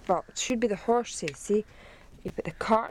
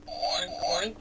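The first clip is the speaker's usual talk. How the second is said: whispered oink; 4 semitones lower than usual. Pretend. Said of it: "He goes, oink".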